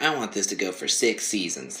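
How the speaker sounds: lightly voiced whiny kid; a hint of a whining child; whiny twelve-year-old. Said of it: "sounds like a whiny".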